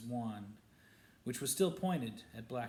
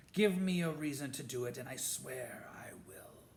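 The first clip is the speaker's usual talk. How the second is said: whispered threat. Acted. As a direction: hiss the threat under breath. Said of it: "he whispered".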